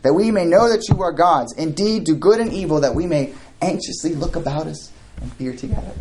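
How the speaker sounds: holy sarcasm. Acted. God dares idols to prove themselves, sarcastic. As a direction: challenge the false gods with mock earnestness. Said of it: "This is this holy sarcasm".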